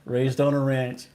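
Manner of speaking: slow, light Texan drawl on "ranch"; lightly imitated Texan way of saying "ranch"; Texan accent. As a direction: echo it with a hint of Texan accent. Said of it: "sounds like the way Texans say ranch".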